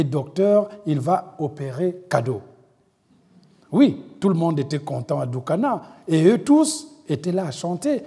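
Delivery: lively reading of a novel passage; lecture de roman. A narrator's reading. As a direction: read the excerpt like a storyteller. Reads aloud a novel excerpt. (lecture animée d'un extrait de roman)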